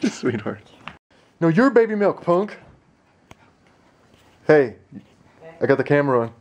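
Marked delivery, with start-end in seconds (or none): 1.4-2.6 high, louder playground taunt; wife teased over milk, high mock taunt. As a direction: tease her like a kid.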